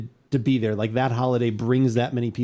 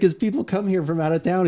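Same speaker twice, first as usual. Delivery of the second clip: raised, higher-pitched indignant complaint; retold anger; 6 semitones higher than usual. Customer scolding the hot dog stand lady, mock indignant. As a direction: mimic an outraged customer scolding. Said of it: "he was very angry".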